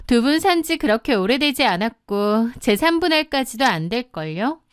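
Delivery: lightly voiced smug other woman; brazen mistress. Mistress disputing the wife's claim to the house, lightly smug. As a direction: lecture the wife with cool entitlement.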